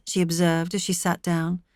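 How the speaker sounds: ordinary delivery, nothing marked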